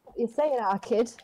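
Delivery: put-on light Manchester accent on our kid. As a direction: say it like a Mancunian. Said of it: "That's my Manchester accent".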